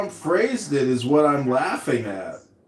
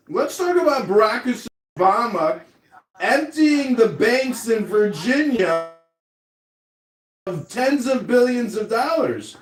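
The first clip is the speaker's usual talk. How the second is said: Trump impression; 5 semitones higher than usual. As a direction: drag out each phrase. Mocking Trump's speech.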